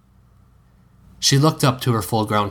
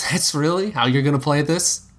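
higher, sarcastic question; 6 semitones higher than usual. A narrator's reading. Cedric scoffing at Delphi, sarcastic and higher. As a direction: scoff at her pretending. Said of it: "sarcastic laugh".

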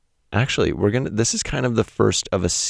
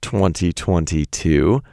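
playful greeting; 2 semitones higher than usual. Real, not acted. Playful high sing-song greeting.

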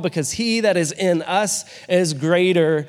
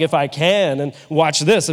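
lower, mock-powerful confidence; 3 semitones lower than usual. Shown as a demonstration. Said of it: "with just power".

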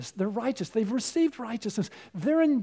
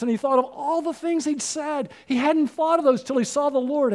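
rising, louder preaching climax; preaching at full force; 3 semitones higher, 4 dB louder than usual. Acted. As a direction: build the sermon to a loud peak.

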